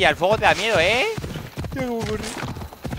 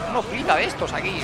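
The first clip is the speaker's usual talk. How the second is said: usual speaking voice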